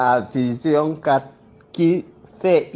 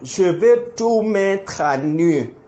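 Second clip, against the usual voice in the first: raised, defiant accusing voice; heated; 5 semitones higher than usual. Real, not acted. Public accusation, defiant heated denunciation.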